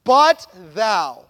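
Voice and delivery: "But thou." said low and loud, then a held pause; dramatic pause after "But thou". Shown as a demonstration. Preacher pausing on "But thou" for the congregation. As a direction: land on "But thou" and stop. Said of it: "And he stops".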